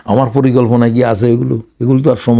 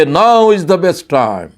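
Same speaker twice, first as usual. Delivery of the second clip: slow emphatic motto; 5 semitones higher, much slower than usual. Retold or imitated. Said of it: "তারা বলবে".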